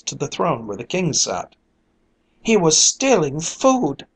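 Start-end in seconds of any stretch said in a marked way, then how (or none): 2.4-4.0 loud, slow accusation; accusing cry. A narrator's reading. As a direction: call out the charge. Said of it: "cried one".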